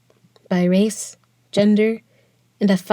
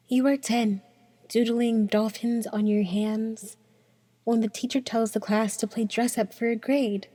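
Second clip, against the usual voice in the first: quiet; 6 dB quieter than usual. Acted. The voice drops noticeably quieter.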